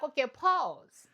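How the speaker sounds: drawn-out pause call; slow and deliberate. Retold or imitated. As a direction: stop them slowly and firmly. Her own retold reaction.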